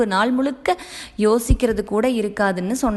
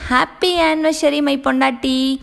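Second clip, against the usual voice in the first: excited announcement; 5 semitones higher, 3 dB louder than usual. Acted. Husband's surprise anniversary shout.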